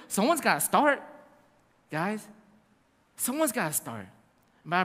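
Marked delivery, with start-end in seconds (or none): 0.1-2.2 light laughing push to get started. Real, not acted. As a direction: chuckle while you urge them on. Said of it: "laughing urging".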